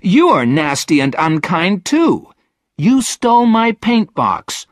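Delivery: put-on high, loud girl's accusation; angry, high outburst; indignant outcry. A narrator's reading. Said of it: "cried Virginia".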